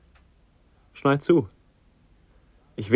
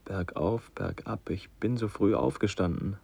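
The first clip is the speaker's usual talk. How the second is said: dreamy murmur; 2 semitones lower, 8 dB quieter than usual. Acted. Son dazed, half in a dream.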